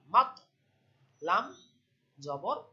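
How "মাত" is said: louder মাত with a popped, echoing final ত; মাত with a bouncing release; qalqalah bounce. Shown as a demonstration. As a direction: push off the ত at the end of মাত. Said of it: "এই যে ধাক্কা দিলাম".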